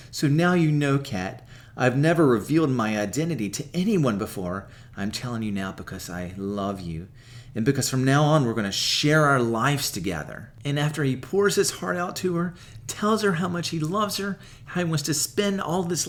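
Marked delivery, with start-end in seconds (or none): 0.1-10.5 heartfelt confession. Retold or imitated. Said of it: "he opens up to her".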